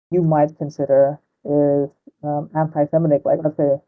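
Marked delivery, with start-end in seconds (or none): 3.2-3.8 muffled, like talking into a pillow; mic turned away, muffled. Real, not acted. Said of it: "you sound like you're talking into a pillow".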